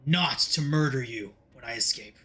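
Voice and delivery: lightly voiced captive demon, measured; deliberate, grudging oath from a villain; bargaining villain.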